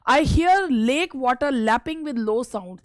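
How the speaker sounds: very slow, deliberate recital of the line; poem recitation. Acted. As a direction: savour each word like verse.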